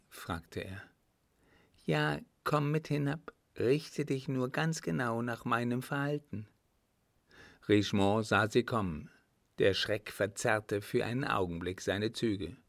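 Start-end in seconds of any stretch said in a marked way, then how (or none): 1.9-6.5 higher-voiced, self-assured daughter; Adeline. A narrator's reading. Daughter tells father to follow her lead, self-assured. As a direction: give instructions in the daughter's higher voice.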